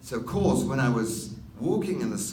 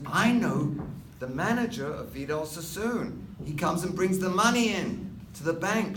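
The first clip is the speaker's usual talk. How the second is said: higher, louder, a light voicing of an eager girlfriend; girlfriend's eager reply; 9 semitones higher, 4 dB louder than usual. Girlfriend offering to introduce him to the manager, lightly higher and louder. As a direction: pipe up like she has the connection.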